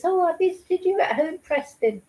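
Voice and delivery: mock talking-down-to-a-baby voice, lifted high; condescending. Host mocking a social worker's report written to a baby, condescending. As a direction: mimic an adult cooing at a toddler. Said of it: "not like this".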